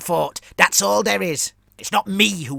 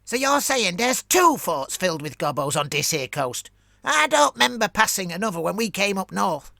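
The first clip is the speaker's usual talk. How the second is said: louder, higher goblin shout hiding fear; mocking shout; 7 semitones higher, 7 dB louder than usual. Scout boss Drofter shouting back at Gurmlis, mocking. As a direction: jeer loudly but let the fear leak. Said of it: "shouted his answer, trying to inject a tone of mockery".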